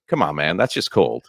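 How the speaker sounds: low, sobered mock hurt; laughter suddenly gone. Checkers worker stops laughing at the comeback, mock hurt. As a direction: drop the voice, like a wounded man. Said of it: "stops laughing and goes".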